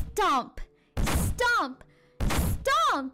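heavy footstep words, climbing in pitch; approaching stomps. A narrator's reading. Monster's feet nearing the cottage, heavy building stomps. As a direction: punch each one out, spaced and rising.

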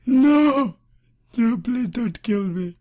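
high, loud no into pleading; terrified scream. Real, not acted. Player caught by Slender Man, screaming.

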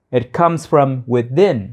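"It comes from within" said slowly, "within" drawn out; slow, careful. Shown as a demonstration. Teacher slows down to model the sentence for students. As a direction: lay each word down slowly for learners. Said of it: "It comes from where?".

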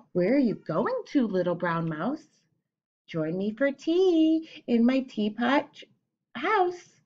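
slow owl's invitation, rising high at the end; hooting owl. Acted. Owl inviting the mouse to tea, slow and inviting.

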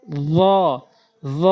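"জ" with tongue tip on the front teeth tips; tongue-between-teeth articulation. Shown as a demonstration. Teacher shows learners a letter, "জ" on the teeth tips. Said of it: "জিহ্বার আগা সামনে দুই দাঁতের আগা".

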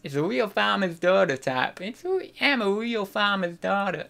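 farmer's daughter in a mock Southern accent; badly faked Southern country-girl twang; attempted Southern accent. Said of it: "No, I, I can't do southern".

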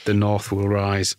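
slow, grand mock proclamation; slow, solemn mock battle cry; mock rallying cry. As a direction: declare it like a rebel leader. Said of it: "mock rallying cry".

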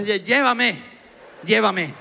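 weak, pleading moan of a sick man; feverish plea. Retold or imitated. Sick man pleading to be taken, weak moan. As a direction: beg to be taken away, delirious.

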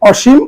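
অসীম said as "o-shim", final m closed; teacher's model of অসীম; model pronunciation. Shown as a demonstration. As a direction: pronounce অসীম carefully, ending on a bare m. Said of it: "এর উচ্চারণ হবে".

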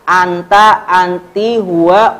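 "anta", "anti", "huwa" each said with a rising tune; list drill. Shown as a demonstration. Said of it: "u semuanya".

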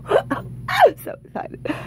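high, slow squeal of joy; excited squeal. Real, not acted. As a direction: squeal it out, overjoyed. Second two X multiplier revealed.

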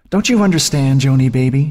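high, sneering sister's taunt; taunting whisper. A narrator's reading. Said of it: "she whispered".

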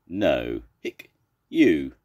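refusal split by a hiccup. Acted. Zebra turns down Miss Pig's cure, hiccuping. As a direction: break the thanks with a hiccup. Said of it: "Zebra's got hiccups".

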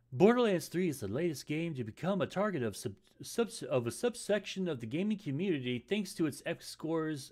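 fast, stumbling news anchor read; newscaster voice. Shown as a demonstration. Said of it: "I'm trying to improve my newscaster voice".

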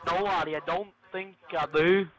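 put-on, shaky attempt at a Scottish accent; terrible mock Scottish lilt. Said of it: "That was my Scottish accent".

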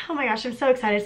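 breathless, winded and quiet; out of breath. Real, not acted. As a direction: catch your breath while talking. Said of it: "Sorry, I'm out of breath".

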